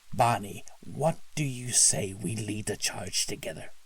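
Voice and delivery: scheming villain; sly ringleader. Acted. Villain Teddy addresses Barney.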